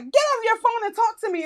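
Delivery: lightly voiced star telling her off; mock scolding. Mariska scolds her for texting.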